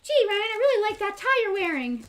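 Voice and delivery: high, loud talking-dog voice; Doug. Retold or imitated. Dog complimenting his owner's tie, high put-on voice. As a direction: pitch it up like a cartoon dog. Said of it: "Doug will say".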